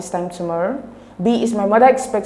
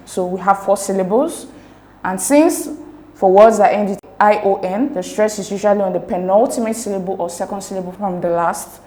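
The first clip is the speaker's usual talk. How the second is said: ordinary delivery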